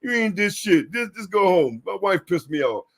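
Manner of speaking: lightly voiced cranky boss; mock angry supervisor. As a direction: brush him off like a grumpy boss. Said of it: "He can wake up and say".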